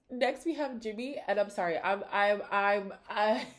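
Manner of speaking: trying not to laugh while talking; apologetic, breaking into laughter; suppressed laughter. Real, not acted. Introducing a contestant and apologizing, fighting laughter. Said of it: "I'm only laughing because".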